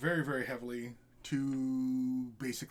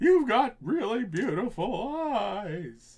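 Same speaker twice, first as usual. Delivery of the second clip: put-on very high, loud old man voice, stretched "eyes"; 9 semitones higher, 10 dB louder than usual. Acting out his awkward teenage self chatting up a girl, in a Grandpa Simpson voice. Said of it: "That sounds a bit like Grandpa Simpson".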